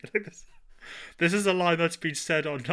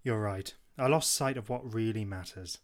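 remorseful; 5 semitones lower, 4 dB quieter than usual. Acted. Villain giving in, reading the script.

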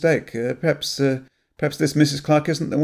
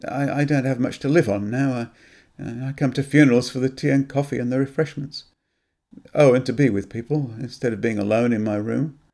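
a mild, halting shamed confession; admitting the truth, a little broken; ashamed; 3 semitones higher than usual. Acted. Graham confesses why he came, mildly ashamed. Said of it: "he said, ashamed".

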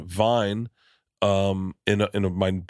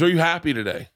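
yoga teacher voice; 7 semitones higher than usual. Retold or imitated. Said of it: "he goes".

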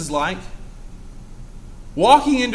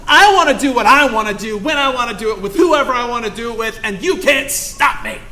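defiant prayer; 4 semitones higher, 3 dB louder than usual. Retold or imitated. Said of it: "sit around and say".

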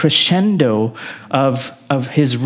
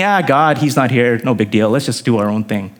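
low, offhand shrug in the voice; imitating careless priests, dropping low; mock indifference; 6 semitones lower than usual. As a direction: brush it off as no big deal. Voicing careless priests and prophets.

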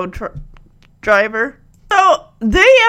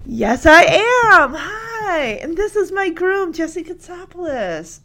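TV persona; 6 semitones higher, slower than usual. Retold or imitated. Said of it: "T V persona".

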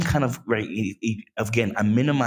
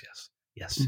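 breathy whispered yeses; just a whisper, letting go; 16 dB quieter than usual. Retold or imitated. Retold prayer, calming himself down.

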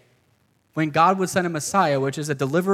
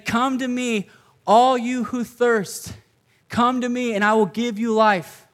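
preaching at full force; 3 semitones higher than usual. Acted. Pastor urging his congregation, fervent and raised. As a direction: press the good news home to the crowd.

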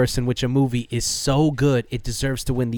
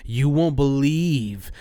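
trailer voice; slower than usual. Retold or imitated. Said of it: "portray it in a way that's like".

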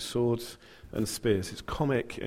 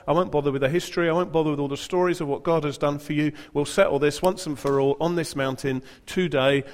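eager challenge; 4 semitones higher, 5 dB louder than usual. Acted. Elijah setting up the challenge.

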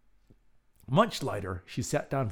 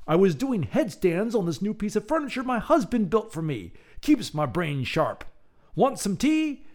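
put-on old woman voice; 9 semitones higher, 4 dB louder than usual. Old woman hostess speaks.

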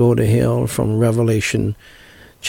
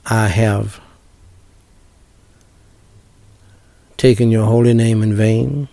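short phrases with pauses. Shown as a demonstration. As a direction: lead a prayer, pausing between phrases. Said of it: "Repeat it after me, phrase by phrase".

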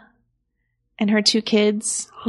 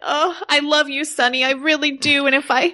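higher, shocked, fretful wife on the phone; Angie on the phone; 5 semitones higher than usual. Acted. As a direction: play the frantic wife who just saw him on TV. S1 plays Angie.

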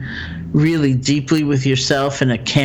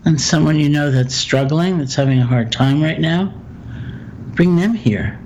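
calm, measured meditation guide with long pauses; guided meditation; 3 dB quieter than usual. Acted. Teacher guiding a listener through loving-kindness phrases, guided meditation. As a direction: guide them gently through it, leaving room for silence.

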